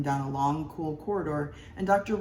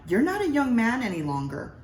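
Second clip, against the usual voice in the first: impatient wife; 7 semitones higher, 4 dB louder than usual. A narrator's reading. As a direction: shut the topic down like a weary wife.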